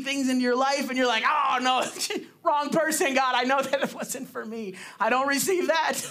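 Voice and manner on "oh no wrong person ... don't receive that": chuckling, slightly higher mock denial; laughing refusal. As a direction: laugh off the compliment. Mock refusing God's word, laughing.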